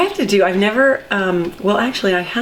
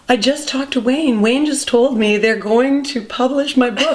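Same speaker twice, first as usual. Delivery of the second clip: higher, bright retelling of the friend's big news; retold excitement; 5 semitones higher than usual. Friend calls at night with book news, excited. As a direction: lift the voice, relive her thrill. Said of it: "her excitement was incredible and palpable".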